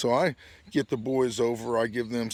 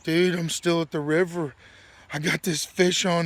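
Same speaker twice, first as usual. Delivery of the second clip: higher-pitched imitation of a begging friend; retold pleading; 4 semitones higher, 4 dB louder than usual. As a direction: plead as your worn-out buddy would. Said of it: "I'm begging you".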